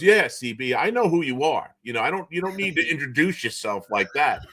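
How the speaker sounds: a hint of an amused old coach waving it off; Thompson amused. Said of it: "So Thompson goes".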